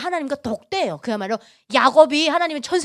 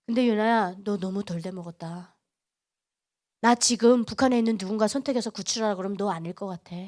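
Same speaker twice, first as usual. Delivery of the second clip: quiet, lowered, grave reproof; suddenly stern; 5 semitones lower, 5 dB quieter than usual. Retold or imitated. God turns on Yuna after testing her, quietly stern. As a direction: turn cold and deliver the rebuke softly. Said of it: "하나님 딱 돌변하시더라고요".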